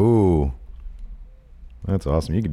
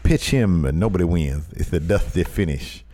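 Dusty Rhodes impression; 5 semitones lower than usual. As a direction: lean in like an old wrestling promo. Dusty bit.

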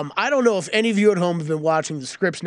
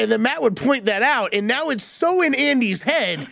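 ordinary delivery

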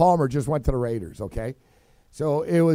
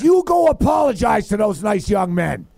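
tag of scolding father; 3 semitones higher, 4 dB louder than usual. Retold or imitated. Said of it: "He goes".

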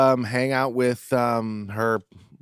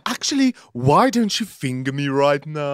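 put-on society voice; hammed-up socialite. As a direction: coax like a theatrical socialite. Joins the posh wine-drinker bit.

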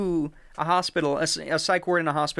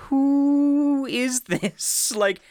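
raised, slow, bewildered mother; mock confused mother, pitched up; imitating Christine; 7 semitones higher than usual. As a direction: play her lost and baffled, voice lifted. Christine voiced in true crime retelling.

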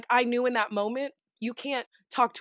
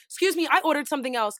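blunt, slightly raised complaint; curt complaint; 3 semitones higher, faster than usual. Acted. Diner correcting a waiter, curt complaint. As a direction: say it straight out, no softening. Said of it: "it's how you say it".

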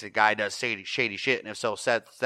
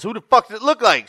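higher, louder shout; hammed-up angry shout; mock shout; 12 semitones higher, 11 dB louder than usual. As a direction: yell it back in anger. Voicing Charlie shouting back.

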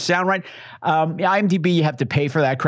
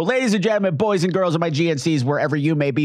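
grand entrance announcement. Acted. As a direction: ring announcer build-up. Introducing guests like ring announcer.

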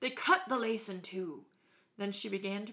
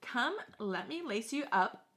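put-on old woman voice; 2 semitones higher than usual.

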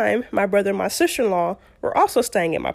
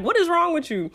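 tag mad husband; 8 semitones higher than usual. Retold or imitated. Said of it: "he was so mad at me".

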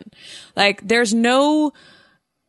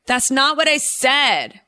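put-on whiny girl voice; 5 semitones higher, slower than usual. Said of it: "girls are like".

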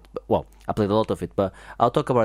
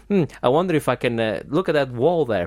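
thinking hmm; 3 semitones higher than usual. Pretend. Acting out in-game puzzling.

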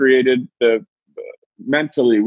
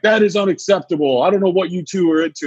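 stern teacher; 5 semitones higher than usual. Retold or imitated. Teacher scolding.

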